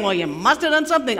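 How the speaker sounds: fast comeback in a mock quarrel; insistent accusation. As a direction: fire the accusation straight back. Friends insist in acted debate.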